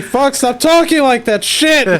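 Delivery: high, exasperated outburst with a laugh; playfully fed up, pitch jumping up; mock annoyed. Listener imagines telling off fellow player, mock annoyed. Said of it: "I'd be annoyed".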